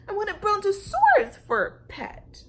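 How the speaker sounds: high loud shout; screaming demand. Acted. Lulu screaming her demand at her parents, high and loud. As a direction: yell it in a tantrum. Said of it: "screeched Lulu".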